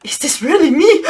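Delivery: breathy little whisper to herself; whispered aside. Real, not acted. Speaker wonders at herself, whispering in amazement. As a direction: whisper it like a private thought.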